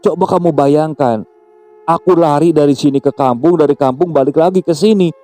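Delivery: rising, high-pitched protest; slightly worked up. A narrator's reading. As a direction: defend yourself indignantly, pitch climbing. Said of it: "ujar Riyad saat itu sedikit emosi".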